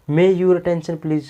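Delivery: very slow, drawn-out call; announcer voice. Shown as a demonstration. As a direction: announce it across the station. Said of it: "station पर सुना होगा". (धीमी station announcement)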